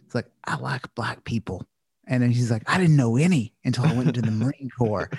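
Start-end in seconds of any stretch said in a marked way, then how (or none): 0.4-1.6 put-on Southern accent. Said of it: "he was really thick Southern accent". 2.7-5.1 put-on Southern accent. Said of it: "he was really thick Southern accent".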